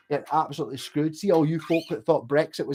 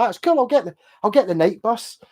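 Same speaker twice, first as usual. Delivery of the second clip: imitating his own casual, higher, louder shrug-off; breezy carefree; 6 semitones higher, 4 dB louder than usual. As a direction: brush it off like it's no big deal. Retelling his own carefree reaction.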